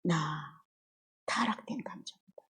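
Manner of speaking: 타락된 감정이다를 숨소리로 속삭이듯; 스스로 깨닫듯 목소리 없이 내뱉기; self-realizing whisper. Real, not acted. Realizing to herself. (자기 자신에게 속삭이는 깨달음)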